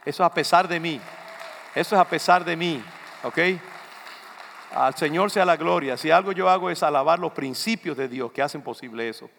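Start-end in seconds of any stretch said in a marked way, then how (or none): none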